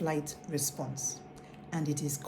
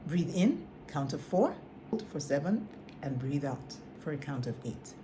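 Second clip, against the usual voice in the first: guided breathing; 3 semitones lower than usual. Shown as a demonstration. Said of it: "Do it again".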